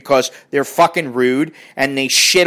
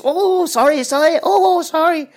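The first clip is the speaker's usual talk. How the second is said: high-pitched mimicked apologising; mock apology; 11 semitones higher than usual. Man apologises for crowding a traveller, mock apology. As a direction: imitate a flustered, repeated apology.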